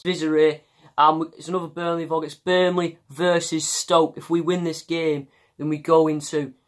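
put-on a mild, half-hearted Burnley accent; attempted Burnley accent, only lightly done. Vlogger doing Vizza's vlog intro in a mild Burnley accent. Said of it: "This one is a Burnley accent".

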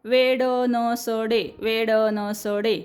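slow वेड न स डे, one piece at a time; split into syllables. Shown as a demonstration. Teacher slowly breaks the word into syllables. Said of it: "वेड वाचायचं नाही".

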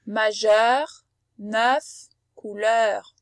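majeur, neuf, couleur spaced out, vowels open. Shown as a demonstration. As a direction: draw out the open eu in each word. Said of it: "Écoute-les bien".

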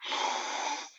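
long voiceless breathy dinosaur noise; dinosaur hiss. A narrator's reading. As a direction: exhale harshly like a dinosaur. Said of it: "a dinosaur said".

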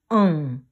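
응 closing on a held "ng"; final ieung sound. Shown as a demonstration. Teacher showing how ieung sounds when it comes last, final ng. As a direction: end 응 in a ringing ng, falling. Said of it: "But it comes last".

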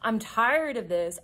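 mildly exasperated, stretching the words; lightly dramatized fed-up resolve; retold frustration. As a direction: recount being fed up, slowing for emphasis. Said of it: "I got so frustrated".

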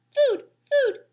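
very high, loud chick squeal; hungry gosling. A narrator's reading. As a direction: peep the demand like a baby bird. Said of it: "peeped the gosling".

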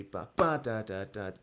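rhythmic syllables, second "ba" punched; vocalised beat with a strong "ba"; accented note demo. Shown as a demonstration. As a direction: count out "ba" with one accent, "da" lighter. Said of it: "let's accent every, uh, second eighth note".

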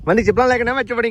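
quick, high-pitched warning call. Real, not acted. Calling a warning to child. (ਉੱਚੀ ਸੁਰ ਵਿੱਚ ਛੇਤੀ ਹਾਕ)

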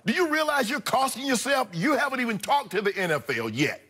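mock-scold him like his PR team; imitating a worried handler. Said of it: "gets a hold of him like".

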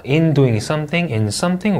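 'in doing something, in something' lifting on each 'something'; rising intonation. Shown as a demonstration. Teacher modelling preposition phrases, rising tune. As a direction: keep each phrase up, unfinished. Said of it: "올려 읽고".

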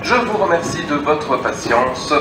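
station loudspeaker announcement; echoing public address voice; over a PA system. Real, not acted.

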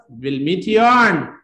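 slow, high call building to a loud shout; rousing sign-off. Real, not acted. Teacher winding up the live class till next Sunday, rousing shout. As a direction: stretch the words out and build to a big farewell holler.

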